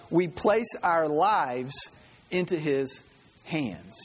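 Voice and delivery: slow, earnest reading of a devotional quote; solemn reading. Acted. Preacher reading Max Lucado to congregation, slow and solemn. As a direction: let each phrase land slowly.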